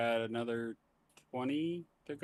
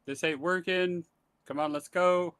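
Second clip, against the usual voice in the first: raised voice, relaying a group's yell; half-shouted imitation of a yell, somewhat higher; mild retold yell; 5 semitones higher, 7 dB louder than usual. Game master relaying the group's shout to a player, mild mock yell. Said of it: "your group has yelled".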